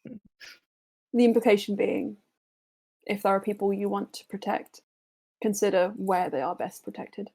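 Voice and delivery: measured, serious mentor voice; earnest counsel to the party; wise mentor NPC. Acted. NPC continues advice.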